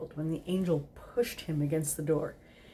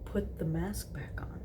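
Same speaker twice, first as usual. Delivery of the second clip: soft repeat; 6 dB quieter than usual. Acted. Repeats murmured request.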